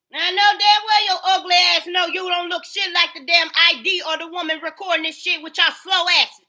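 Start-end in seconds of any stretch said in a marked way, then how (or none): 0.1-3.1 loud, higher, furious yelling; angry shout. Real, not acted. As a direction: yell it at them, all fury. Ranting shout at the women.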